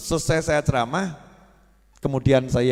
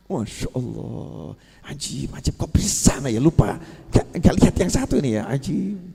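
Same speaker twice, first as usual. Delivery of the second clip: put-on amazed old teacher; 2 semitones lower, 3 dB quieter than usual. Teacher amazed at forgotten kitab.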